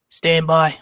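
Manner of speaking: Reggie from Boston voice; Boston accent. Pretend. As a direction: stand by in a thick Boston accent. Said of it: "My Reggie from Boston voice".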